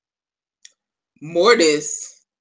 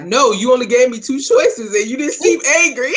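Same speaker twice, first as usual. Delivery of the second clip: put-on higher squeaky boy; 8 semitones higher than usual. Boy answering with amused logic.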